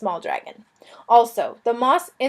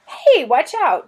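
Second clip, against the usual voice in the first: warning shout; 5 semitones higher, 5 dB louder, much slower than usual. A narrator's reading. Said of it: "Shiera said".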